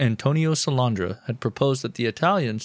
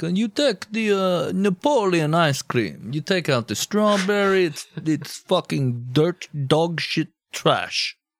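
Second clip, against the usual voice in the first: put-on Middle Eastern accent with drawn-out words; 6 semitones higher than usual. Act out what Cadorna was probably thinking, as Cadorna with a Middle Eastern accent. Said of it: "I don't know why I sound Middle Eastern right here".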